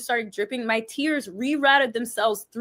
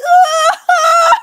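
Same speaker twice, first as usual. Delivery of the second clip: sudden high loud wailing cry; imitating an ugly public sob; 14 dB louder than usual. To a friend, mocking her own ugly cry with a loud wail. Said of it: "not be like".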